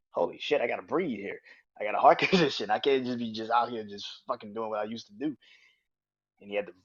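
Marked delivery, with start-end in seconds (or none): 0.1-5.4 louder, startled and laughing; loud half-laughing rush; excited Triple H impression. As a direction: play him catching himself mid-hype.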